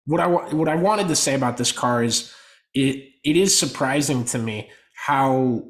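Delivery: real swings in pitch and volume; uneven, emphatic podcast talk with sudden rises. Real, not acted. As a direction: let the voice jump up and down as you make the point. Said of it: "my voice is going up and down".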